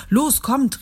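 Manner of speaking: rally the friends to head out; rufend. A narrator's reading. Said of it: "rief Petrus". (höher und lauter rufen)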